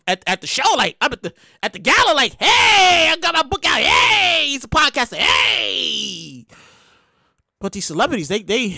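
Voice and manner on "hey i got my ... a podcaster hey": mock hollering. Acts gala arrivals hollering.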